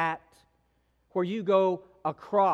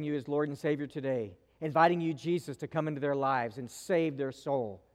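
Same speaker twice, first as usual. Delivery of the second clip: pastor's prayer; 3 semitones lower than usual. Real, not acted. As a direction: pray it over the congregation, hushed. Closing prayer.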